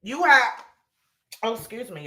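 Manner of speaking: choking on water mid-sentence; coughing after water went down wrong pipe. Real, not acted. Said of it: "That water went down the wrong pipe".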